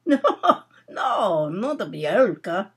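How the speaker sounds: put-on lightly Russian-accented denial. Russian youth correcting Nora's guess, Russian accent. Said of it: "Russian youth whom she had brought down".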